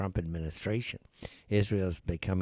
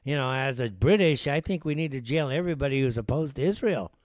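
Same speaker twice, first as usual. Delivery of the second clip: mock Brit; 5 semitones higher, 4 dB louder than usual. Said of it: "I can't imagine the British people saying".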